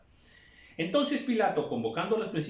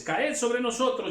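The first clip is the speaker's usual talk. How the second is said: higher, slow crying out; desperate plea; 9 semitones higher, 4 dB louder than usual. Acted. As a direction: beg the mountains. Desperate cry to mountains. (súplica desesperada)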